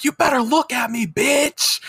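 high, wild concert screaming; mock fan yell. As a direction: shriek it at the stage like a crazed fan. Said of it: "I'm like".

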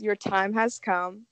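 slow, ominous mansion host; creepy butler. Acted. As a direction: announce doom slowly, somberly. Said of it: "my favorite thing to say is".

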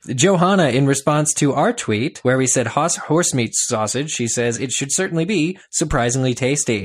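loud, hurried reading of tweets; rushed tweet reading. Acted. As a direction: race through them against the clock. Racing through tweets in time.

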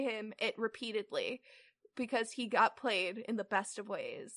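even, measured read-aloud; story narration. A narrator's reading. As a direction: read the fanfic out steadily. Reads the fanfic aloud.

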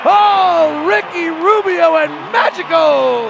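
shouted bad-Spanish-accent celebration, high and drawn out; exultant commentator's shout with bad Spanish accent. Real, not acted. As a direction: belt it out in clumsy mock Spanish. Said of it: "with my bad accent that can't speak Spanish".

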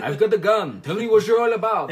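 bad mock French accent, loud; hammed-up French accent with a laugh in it; Poirot. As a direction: do a poor French accent, loudly. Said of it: "I'm not very good French accent".

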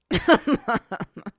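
high, loud burst of laughter; helpless giggle at your own story; real laughter. Real, not acted.

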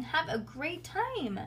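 slow, high, lilting send-off; singsong. A narrator's reading. Nancy waves parents off sweetly, high singsong. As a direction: stretch it out musically. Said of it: "Nancy sang".

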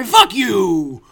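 mock yell. Mock rant.

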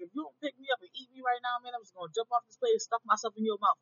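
loud, pushy mozzarella stick; bully the speaker as the snack; a snack shouting its threat to be eaten; threatening food voice. Pretend. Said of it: "And it was just like".

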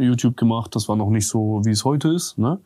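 blocked nose, congested; stuffy nose. Real, not acted. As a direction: speak through a stuffy nose. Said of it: "meine Nase ist voll verstopft".

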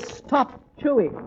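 slow, firm order; stern command. Acted. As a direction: lay down the law slowly. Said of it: "all I can say is".

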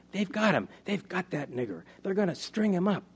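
put-on high, urgent boy's report; alarmed cry. Barty tells the family the mob has Arthur, alarmed cry. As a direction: cry out the bad news, pitch jumping up.

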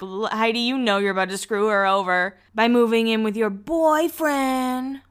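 a lightly voiced nagging mom; Barbara impression. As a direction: scold her like a worried mother, lightly. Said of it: "That's my best Barbara impression".

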